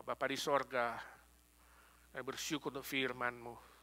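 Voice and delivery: pastor leading the congregation in prayer before communion. Acted. Pastor leads closing prayer.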